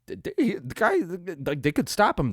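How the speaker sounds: high, loud, hyped-up play call; rising excitement, almost yelling; excited. Real, not acted. Hyped replay commentary.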